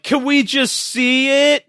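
put-on kid voice. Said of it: "someone else is like".

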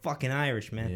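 mock Boston Irish; Boston Irish accent. Friends riffing on Boston Irish pride, Boston Irish accent. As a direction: play at a proud Boston Irishman. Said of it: "the Boston Irish one's funny as well".

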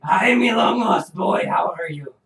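put-on slow pirate accent greeting; a hint of a pirate accent. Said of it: "Please ignore the pirate voice".

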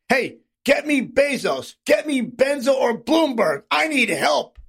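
hammed-up plea, punching the names; mock pleading. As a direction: imitate a mogul urgently summoning favours. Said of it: "The studio mogul pleaded".

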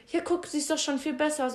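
mocking the guys. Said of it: "Und die so".

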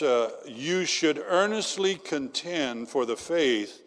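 slow, measured Bible reading; scripture reading. Acted. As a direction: read the verse slowly and solemnly.

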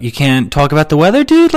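incredulous protest, pitch leaping up on the last word; mock indignation. Comic arguing with someone who refuses small talk, mock indignant. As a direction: protest in a high, disbelieving rise.

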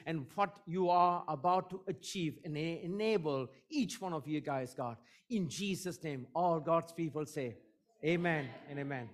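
fervent, rhythmic spoken prayer; earnest congregational prayer building in energy; public prayer. Real, not acted. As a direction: pray aloud for the whole congregation, phrase after phrase.

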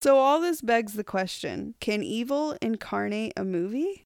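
"can evil incarnate a movie" lifted into a rising question; read like a question. Real, not acted. Host introducing the topic, "movie" rising like a question. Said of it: "N P R".

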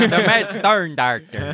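"Doctor" mimicked as "darkter", high and laughing; mocking the slip.

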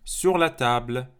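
slow loud repetition model; repeat after me. Shown as a demonstration. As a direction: give it in chunks to echo. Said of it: "Répétez après moi".

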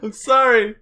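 trying not to laugh; stifled giggles. Real, not acted. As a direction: giggles breaking through the words. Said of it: "I'm trying not to laugh".

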